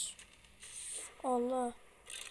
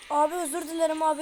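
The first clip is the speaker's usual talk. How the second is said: frantic begging; 7 dB louder, much faster than usual. Real, not acted. Begging angry baby in game.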